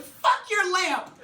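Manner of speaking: high screamed yell, drawn out; mock furious shout. Mom yelling at the band parents, loud high shout. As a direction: scream it like smashing a lamp.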